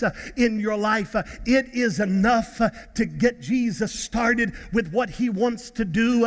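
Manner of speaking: steady, rhythmic preacher exhortation; measured pulpit cadence with punched phrase endings; earnest preaching. Real, not acted. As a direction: drive each phrase home to the congregation. Preaching to young adults.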